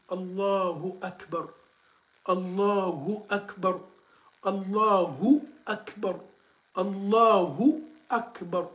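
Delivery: "Allahu Akbar" drawn out slowly, "hu" fully sounded; slow model recitation. Shown as a demonstration. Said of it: "Il faut répéter ça".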